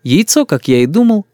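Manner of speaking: usual speaking voice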